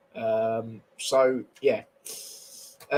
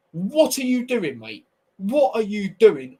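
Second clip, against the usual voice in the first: much higher, slow, incredulous what are you doing; exasperated; 6 semitones higher, 3 dB louder, slower than usual. Real, not acted. Fan berating Mendy for his touch, incredulous. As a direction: stretch it out in disbelief.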